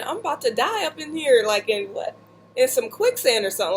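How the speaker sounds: a hammed-up "I'm about to die" thought; mock panic. Sinking in the bog, she imitates her own panicked thought.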